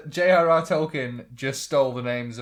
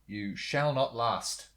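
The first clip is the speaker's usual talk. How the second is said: mock Gandalf; 4 semitones lower, 5 dB quieter, slower than usual. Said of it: "Does he go up to him and say".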